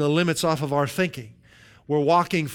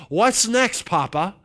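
lightly voiced eager child, pitched up; childlike eagerness; 5 semitones higher, 4 dB louder, slower than usual. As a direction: ask it like a child turning to a parent. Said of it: "greeting God with a childlike".

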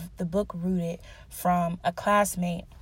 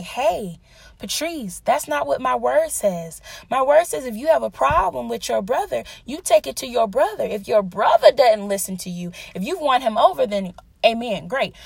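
retold firm correction; 3 semitones higher than usual. Voices God correcting her.

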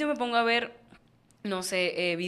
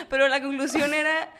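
stifled giggles; 4 semitones higher, 4 dB louder than usual. Real, not acted. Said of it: "no puedo aguantar la risa".

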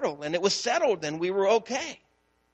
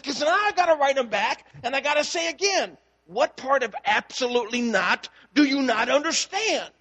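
worked up; 5 semitones higher than usual. Retold or imitated. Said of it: "I'm kind of worked up at her".

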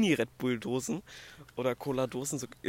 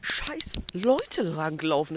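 annoyed whisper; 8 semitones higher, 5 dB louder than usual. Real, not acted. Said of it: "Das regt mich so".

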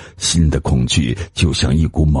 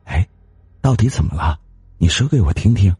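soft and sweet; 4 semitones higher, faster than usual. Acted. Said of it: "细声悦耳地对王大贵说".

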